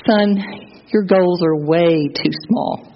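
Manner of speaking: slow, gentle verdict from a lightly voiced pastor; wise old pastor. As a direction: let the boy down slowly and kindly. Pastor's final verdict to boy.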